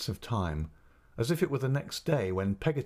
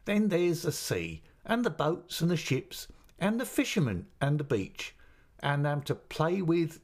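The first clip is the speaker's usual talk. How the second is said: eager listing; 8 semitones higher than usual. Acted. Peggotty lists seaside delights eagerly.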